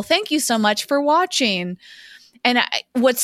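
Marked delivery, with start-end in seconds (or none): 0.0-1.8 higher, lightly imitated YouTube outro; whimsical sign-off. Reenacting the end of a YouTube video, lightly whimsical. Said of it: "that classic whimsical".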